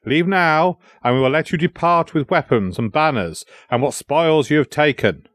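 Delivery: mildly commanding terms to the enemy; commanding prince. Acted. Prince offering the invaders a chance, mildly commanding.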